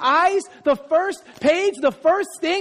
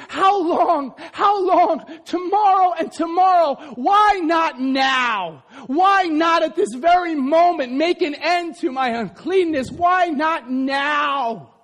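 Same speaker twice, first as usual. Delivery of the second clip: anguished cry; slower than usual. Acted. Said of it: "as he's crying under the fig tree".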